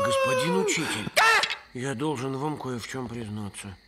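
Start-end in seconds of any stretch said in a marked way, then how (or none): 0.0-1.1 high, loud call to the teacher; urgent high call across the room. Acted. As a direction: shout to get the teacher's attention. Calling out to the teacher.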